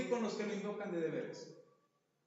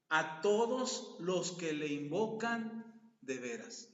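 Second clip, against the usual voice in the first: slow, solemn, louder Bible reading; scripture reading; 4 dB louder, slower than usual. Acted. Pastor reading the psalm to the congregation, slow and solemn. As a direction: proclaim each verse slowly.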